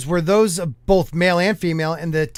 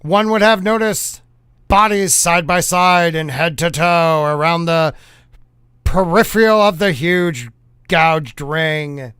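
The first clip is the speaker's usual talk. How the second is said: put-on punchy old-time newsreel announcer; hammed-up fifties newscaster read; 1950s news voice. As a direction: proclaim it like a vintage news bulletin. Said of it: "read it in a nineteen fifties news style voice".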